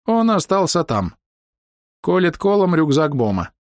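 high, slow burbling gurgle; gurgling voice. A narrator's reading. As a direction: keep the gurgle going. Doc continues in same voice.

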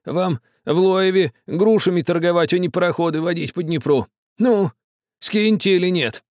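high, mocking old villager; scornful old man. A narrator's reading. Old man scolding the captain, high and scornful. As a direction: sneer at the captain. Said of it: "сердито пробормотал старик".

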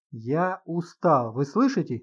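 ordinary delivery, nothing marked

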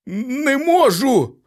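high, slow, cracking despair; voice breaking. A narrator's reading. Husband answering his wife, voice breaking. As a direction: let the voice crack on it. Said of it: "зривистим голосом промовив її чоловік".

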